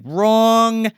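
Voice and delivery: mock dummy snapping back; sharp retort. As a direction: cut him off hard as the dummy. Dummy Fats snaps back at Corky.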